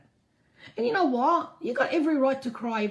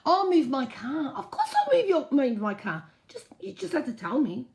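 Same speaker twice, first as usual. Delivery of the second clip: laughing reply; 5 semitones higher, 4 dB louder than usual. Retold or imitated. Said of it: "I go".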